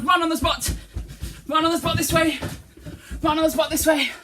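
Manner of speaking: high, loud coaching call; loud exercise call. Real, not acted. Teacher leading children running on the spot, loud call.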